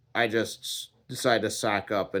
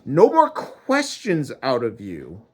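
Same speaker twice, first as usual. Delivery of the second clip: mad; 3 dB louder than usual. Acted. God forbidding the man any questions, angry. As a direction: shut down all questions crossly. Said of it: "he was mad".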